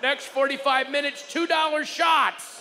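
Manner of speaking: a barker announcing cheap shots, mock yell; bar announcement shout. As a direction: call out the drink special over the crowd. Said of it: "they said".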